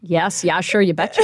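light Minnesotan lilt; Minnesota accent. Acted. Guest confirming her Minnesota origins, in a Minnesota accent. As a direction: answer in folksy Minnesotan. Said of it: "great example of the Minnesota accent".

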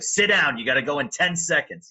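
a supervisor ordering him to the mic at once; urgent boss. Retold or imitated. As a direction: rush him into the seat. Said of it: "She was like".

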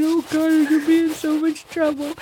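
put-on rushing out the worry like a scared kid; panicked little girl. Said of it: "I'm thinking".

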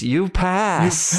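high mock yelp; mock scream. Student screaming at the professor, a high mock yelp. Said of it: "twisting his nipple until he screams".

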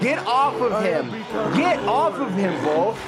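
high, loud desperate yelling; panicked shouting. Acted. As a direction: yell at the bull to stop. Friend gored, shouting at bull.

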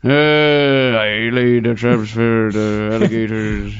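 put-on slow, drawn-out Cajun accent like Quint; a poor Cajun accent sliding into Quint from Jaws. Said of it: "my poor Cajun accent just turns into Quint from Jaws".

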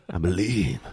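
a hint of mock tears; tearful hope. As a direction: beg it like you're about to cry. Desperate hope for dog.

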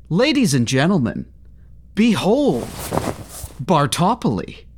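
grand showman unveiling; showing off. Acted. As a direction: announce it like a ringmaster. Grand unveiling of his invention.

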